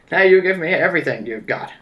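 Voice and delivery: loud cowboy bandit demand; cowboy accent. Acted. Jesse James robbing passengers, loud cowboy accent. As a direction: order it in a hammed-up cowboy accent. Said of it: "You do the cowboy accent".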